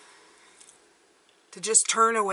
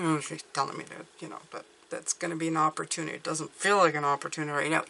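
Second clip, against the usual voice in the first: grumbling; 3 semitones lower, 3 dB quieter, faster than usual. Retold or imitated. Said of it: "even if you're grumbling".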